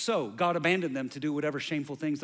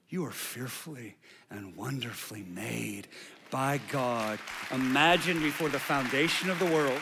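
lowered, intimate pastoral voice; tender reassurance; 3 semitones lower than usual. Real, not acted. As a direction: reassure a hurting listener gently. Tender reassurance to struggling listeners.

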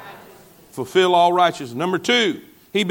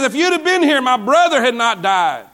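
confronting; 4 semitones higher than usual. Retold or imitated. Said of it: "gets in his face and says".

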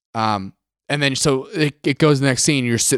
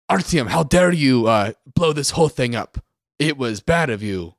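mock Russian accent. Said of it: "And it's just like".

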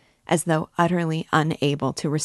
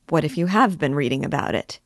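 a mild impatient cry; lightly voiced, puzzled outburst; perplexed and impatient; faster than usual. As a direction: Zamyatov losing patience with Raskolnikov, mildly crying out. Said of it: "he cried at last, perplexed and impatient".

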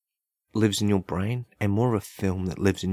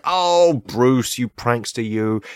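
fond teasing; 2 semitones higher, 5 dB louder, slower than usual. Retold or imitated. Crowd fondly scolds the shark.

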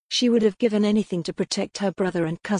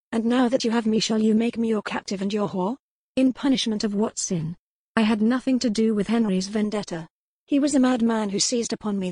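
Corwin's voice; 3 semitones higher than usual. Acted. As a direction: plead your case with rising indignation. Corwin pleads against captivity.

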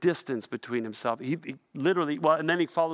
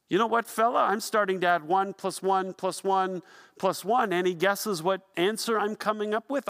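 higher-pitched, needling accuser; mock confrontation; 5 semitones higher than usual. Mob member cornering Peter, higher-pitched mock confrontation. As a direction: challenge him with pointed rhetorical questions.

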